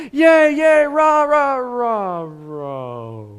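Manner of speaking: loud cheering that fizzles out; mock crowd cheer. Crowd cheering for the king, then fading. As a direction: cheer loudly, then let it die away. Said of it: "everybody's like".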